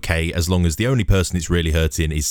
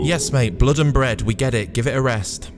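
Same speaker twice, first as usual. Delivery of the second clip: exasperated interruption; 6 semitones higher than usual. Acted. Jack cuts off giant's chant.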